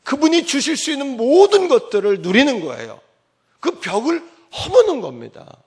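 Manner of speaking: high, loud proclamation; full-force preaching. Acted. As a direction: thunder it from the pulpit. (높고 크게 외치는 설교)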